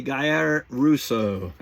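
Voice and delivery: very slow "Guy Russo" with a rolled r, Italian-style; mock Italian accent. Shown as a demonstration. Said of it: "Why do I have to say it with an accent?".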